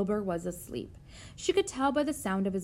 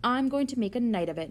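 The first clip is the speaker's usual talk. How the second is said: grinning; 4 semitones higher, 4 dB louder than usual. A narrator's reading. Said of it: "The rat grinned".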